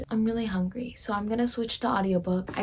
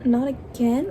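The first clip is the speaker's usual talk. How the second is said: dismayed; 3 semitones higher, 3 dB louder, slower than usual. Real, not acted. Plot twist while reading.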